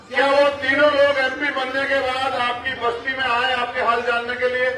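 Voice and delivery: rally oratory in measured phrases; political speech. Real, not acted. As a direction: address the crowd as an orator. (चुनावी सभा का भाषण)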